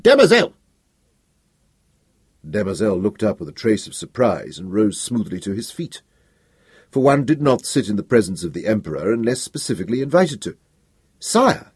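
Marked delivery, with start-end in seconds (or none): 0.0-0.5 full shout, much higher and louder; shouted name. A narrator's reading. Emperor bursting into the office, shouting. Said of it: "literally shouted". 11.2-11.7 surprised sire. A narrator's reading. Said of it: "he said".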